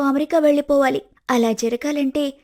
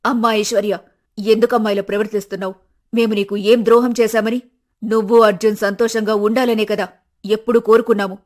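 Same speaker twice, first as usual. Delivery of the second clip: put-on lower, louder, hurt old mother; pleading mother; 3 semitones lower, 5 dB louder than usual. Mother pleading with her son's wife, hurt and louder. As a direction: beg her to understand, wounded.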